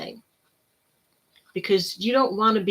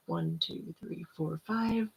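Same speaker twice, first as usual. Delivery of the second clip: quiet counting; 11 dB quieter, slower than usual. Shown as a demonstration. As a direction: count the breaths quietly and slowly. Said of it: "So it's".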